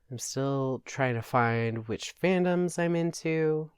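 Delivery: breathy whispered confession, half to self; a quick whispered aside to listeners. Real, not acted. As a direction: lean in and whisper it like a secret. Whispered aside in podcast intro.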